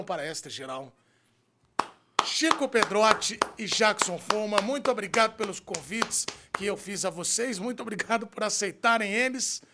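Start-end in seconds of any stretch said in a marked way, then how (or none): 2.2-9.6 announcer hype. Real, not acted. Host announcing guests loudly.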